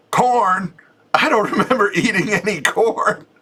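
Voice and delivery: high-pitched mock bellow from a stall; bellowing cry. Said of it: "I heard this bellowing cry".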